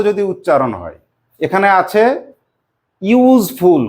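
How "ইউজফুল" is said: ইউজফুল said opening with a yu glide; yu sound. Shown as a demonstration. Teacher models ইউজফুল with the yu sound. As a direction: start ইউজফুল with a clear yu. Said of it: "কেমন উচ্চারণ করছি?".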